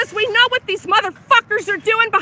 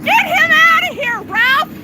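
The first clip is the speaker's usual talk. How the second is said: angry demand; 6 semitones higher, 3 dB louder than usual. Real, not acted. Demanding boss remove worker.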